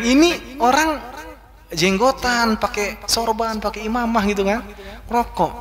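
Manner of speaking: mock surprise. Speaker retells seeing a bearded man smoking, mildly surprised. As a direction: imitate your own mild astonishment, item by item. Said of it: "Saya kaget".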